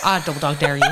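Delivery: imitated Derry dare; Derry accent. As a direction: do the Northern Irish schoolgirl's Derry catchphrase. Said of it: "was from up the north".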